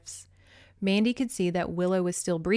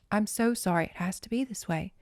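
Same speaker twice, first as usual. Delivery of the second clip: tearful. Acted. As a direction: voice catching with tears. Mother consoles Lizzie.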